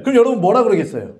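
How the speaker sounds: ordinary talk, nothing marked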